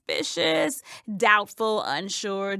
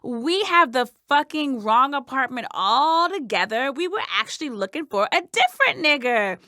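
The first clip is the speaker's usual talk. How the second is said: apologetic police voice; 4 dB louder than usual. Retold or imitated. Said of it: "they'd say something like".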